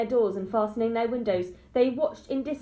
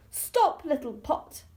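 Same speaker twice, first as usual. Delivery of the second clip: a sudden high cry of Stop; high panicked cry; 6 semitones higher, slower than usual. A narrator's reading. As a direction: call out to the runaway pot in a panic. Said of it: "crying out".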